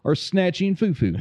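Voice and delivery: high slow lawman voice; stern marshal drawl; Tommy Lee Jones impression. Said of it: "Tommy Lee Jones".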